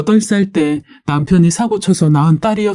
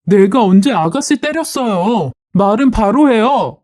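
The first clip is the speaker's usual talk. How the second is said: slightly raised, firm retort; mildly acted defensive annoyance; indignant denial; 4 semitones higher than usual. Wife answering sister-in-law's accusation, indignant retort.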